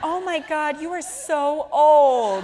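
put-on shocked kids. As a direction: play the horrified kids. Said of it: "and they were like".

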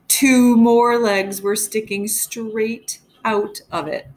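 put-on lively read-aloud storytelling for kids; story narration. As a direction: tell it to the class with suspense. Teacher reads story aloud.

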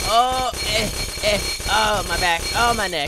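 put-on pained groaning old-timer; aching old man. Old man crashing, complaining of back and neck, mock groaning. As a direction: groan through each complaint, hammed-up.

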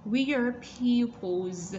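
"We are pupils" drawn out slowly for learners; slow teacher demo of "We are pupils"; careful pronunciation demo. Shown as a demonstration. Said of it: "ở đây chúng ta sẽ đọc là âm ơ".

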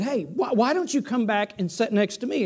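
gentle, kindly deacon asking politely; kindly, gently. Retold or imitated. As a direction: coax him back like a kind usher. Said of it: "very kindly said".

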